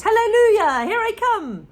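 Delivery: put-on high, loud old woman's cry; Grandma whooping as she grows; ecstatic Grandma. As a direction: crow it out in triumph.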